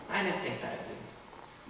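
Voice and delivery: soft, slow wounded whisper; hurt whisper. Acted. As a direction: let the hurt come out quietly. Hurt suitor rebuked.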